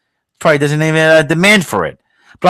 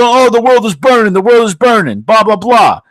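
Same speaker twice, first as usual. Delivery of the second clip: higher, a bit louder, put-on panicky voice; mock doomsayer; 8 semitones higher, 5 dB louder than usual. Mocking people on left and right who say the world burns, mock alarm. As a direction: parody people crying that the world is burning. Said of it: "they go".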